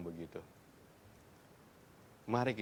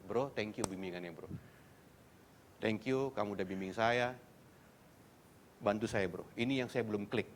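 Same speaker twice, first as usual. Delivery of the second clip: polite thanks. Acted. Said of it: "Jangan begitu".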